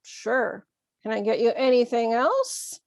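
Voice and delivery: mildly sarcastic offer of help. Acted. To someone who asked for too much, mildly sarcastic. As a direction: feign willingness with light sarcasm. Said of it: "in a sarcastic tone".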